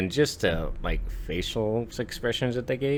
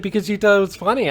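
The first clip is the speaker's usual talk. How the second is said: put-on kid voice; 13 semitones higher, 8 dB louder, faster than usual. Michael's answer voiced.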